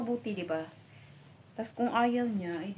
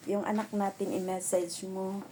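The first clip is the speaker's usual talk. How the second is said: his way of talking. Retold or imitated. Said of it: "Ganyan siya magsalita".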